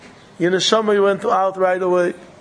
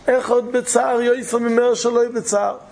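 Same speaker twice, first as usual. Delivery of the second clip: slow solemn quote; 4 semitones higher than usual. Shown as a demonstration. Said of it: "quoted saying, repeated slowly".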